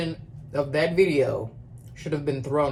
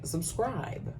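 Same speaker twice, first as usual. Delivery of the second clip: soft, raised-pitch aside; hushed emphasis; 4 semitones higher, 10 dB quieter than usual. Real, not acted. Vlogger urging viewers at sign-off, hushed emphasis. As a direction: drop the volume right down, lift the pitch. Most important item, said differently.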